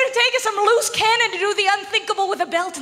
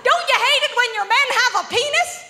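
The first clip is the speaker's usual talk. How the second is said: mock girly stage banter; 5 semitones higher than usual. Comic mimics her old closeted stage act, chummy. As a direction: chat up the ladies as one of them. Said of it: "I'd be like".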